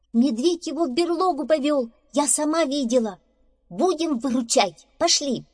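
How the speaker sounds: high-pitched, urgent squirrel voice; urgent squirrel calling. Acted. Squirrel urging badger to save hare, calling out. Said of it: "позвала белка барсука".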